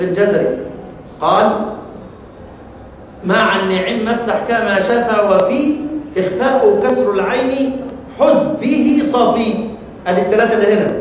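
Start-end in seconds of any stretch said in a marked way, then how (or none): 3.2-9.5 measured chanted recitation of a poem line; verse recitation. Shown as a demonstration. Teacher reciting the verse to his students in a measured chant. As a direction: intone the verse slowly and evenly.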